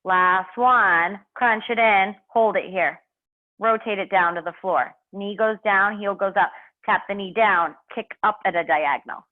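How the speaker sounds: strained, effortful coaching mid-exercise; doing sit-ups. Real, not acted. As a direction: push the words out while working hard. Instructor exercising while coaching.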